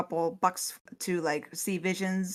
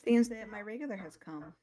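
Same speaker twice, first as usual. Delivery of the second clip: weary sigh; 3 semitones higher than usual. Acted. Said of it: "as she just sighs".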